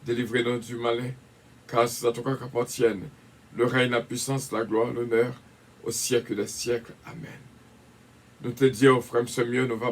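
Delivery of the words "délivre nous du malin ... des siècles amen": prayer. Acted. Recites the Lord's Prayer.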